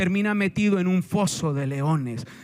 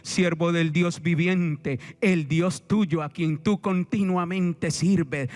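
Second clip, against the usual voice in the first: slow, lower, mildly mournful call; sad king; 4 semitones lower, slower than usual. Acted. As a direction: read the king's plea slowly, with understated sorrow. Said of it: "con voz triste viene y le dice".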